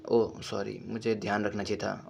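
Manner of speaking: put-on soft, sad, mild robot girl apology. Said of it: "और उदास हो जाती है".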